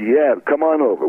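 high, ready yes; imitating an enthusiastic producer; eager invitation. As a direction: wave them over with a lifted voice. Producer's eager reply on phone, retold.

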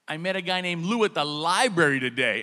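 laughing clueless roommate; a touch of a dopey bro. Retold or imitated. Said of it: "He's like".

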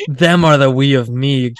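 hammed-up reading of a strange line; mock dramatic quoting. Host echoes his co-host's quote in mock drama. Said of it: "Good Lord".

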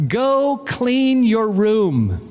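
put-on slow, drawn-out order to a child; a hint of a dad giving orders; dad's command. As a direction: spell out the chore slowly, like a father. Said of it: "if I tell my daughter".

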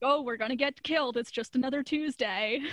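mock-resigned, lightly joking retelling; casual joking. Host imitating Steven shrugging off danger, lightly joking. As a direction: toss it off as a casual joke.

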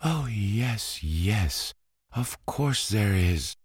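put-on high, panicky girlish cry; frightened cry. A narrator's reading. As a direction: blurt it out, scared stiff. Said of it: "cried the little dried plum".

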